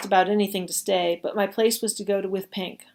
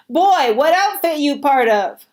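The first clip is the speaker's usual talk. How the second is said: higher, loud and slow rough leader voice; leader barks; 6 semitones higher, 8 dB louder, slower than usual. Acted. Confederate leader barking a question at the boy, slow and loud. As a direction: bark the question at him slowly. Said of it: "their leader barked".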